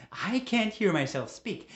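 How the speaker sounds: husband yelling at his wife; shouted. Acted. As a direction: let it burst out, slow and loud. Repeated line, quiet then shouted.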